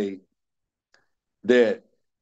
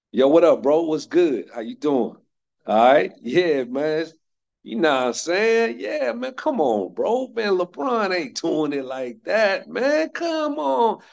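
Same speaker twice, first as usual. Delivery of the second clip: loose slangy buddy talk, pitch climbing higher toward the end; casual talk with friends; 4 semitones higher than usual. Shown as a demonstration. Speaker shows students how he talks with his friends, relaxed slangy banter. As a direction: greet your boys like you're hanging out in the neighborhood. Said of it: "When I'm around my friends".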